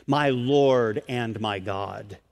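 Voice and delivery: hushed, low and reverent; humble adoration. Retold or imitated. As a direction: drop down into awed reverence. Voices Thomas bowing in adoration.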